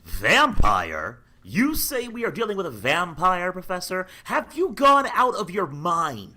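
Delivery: shocked disbelief. Acted. John disbelieves Van Helsing.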